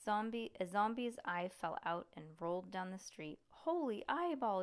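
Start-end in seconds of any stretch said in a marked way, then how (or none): 3.5-4.6 high excited yell. Acted. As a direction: shout it out in shock. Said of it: "yelled Frank".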